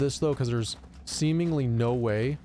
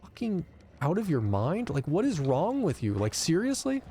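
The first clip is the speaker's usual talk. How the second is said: retold disgust; 4 semitones higher than usual. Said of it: "utter disgust at".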